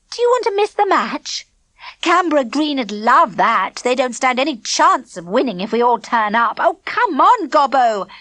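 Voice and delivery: put-on high, loud eager girl; eager urging. A narrator's reading. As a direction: hurry them along eagerly. Clipper urging friends to match.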